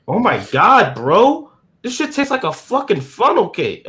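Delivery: mock amazed rave; impressed exclamation. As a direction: imitate someone blown away by a bite of food. Roommate gushing over pancakes, retold.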